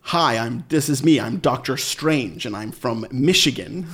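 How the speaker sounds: lightly hammed American accent, over-enunciated; British actor working overtime at American; overdone American accent. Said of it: "make them speak in an American accent".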